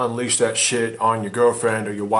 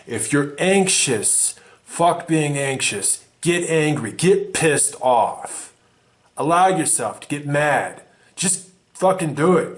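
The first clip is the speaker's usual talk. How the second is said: building fired-up rant; 4 semitones higher, slower than usual. Acted. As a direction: whip them up, each line higher than the last.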